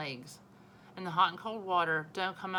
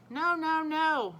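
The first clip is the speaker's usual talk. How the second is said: put-on loud, much higher child's protest; shouting; 10 semitones higher, 6 dB louder, much slower than usual. A narrator's reading. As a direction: yell no while holding his rear. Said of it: "Fudge shouted".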